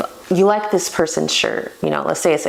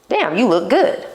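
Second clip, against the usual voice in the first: blunt compliment; 4 semitones higher than usual. Shown as a demonstration. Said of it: "Very direct".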